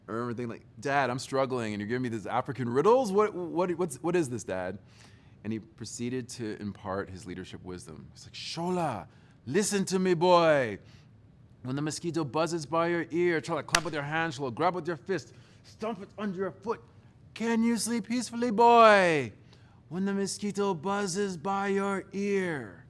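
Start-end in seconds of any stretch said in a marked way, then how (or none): 0.8-4.8 mock baffled teen, louder and fast; exasperated teen. Son protesting his father's riddle, exasperated. 8.3-22.8 hammed-up father, higher and louder, preaching; dad's lesson. Father lecturing his son about the mosquito, theatrical.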